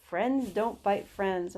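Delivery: slow, lightly mimicked repeat; amused echo. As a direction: imitate an amused owner echoing a pet phrase, drawn out. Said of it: "owners start giggling. They're like".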